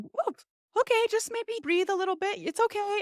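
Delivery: high-pitched imitation of a soothing doctor; reassuring doctor. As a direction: mimic a doctor calming a patient, voice lifted high. Imitates doctor soothing nervous patient.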